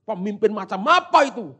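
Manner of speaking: indignant mock complaint; angry rebuke. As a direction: scold a leader who has let you down. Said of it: "Kalau ditambahi kira-kira begitu".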